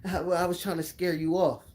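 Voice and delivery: lightly voiced cackling old coach; a hint of an old man chuckling; mock old man laugh. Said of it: "he started laughing".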